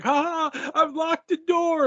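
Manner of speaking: high-pitched mock-triumphant gloating; Scarlett. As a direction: crow it like a smug villain. Voicing Scarlett's smug boast.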